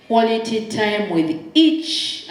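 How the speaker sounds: слово «each» выделено, с подъёмом в конце; stress on each. Shown as a demonstration. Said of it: "I'm putting emphasis on the word each".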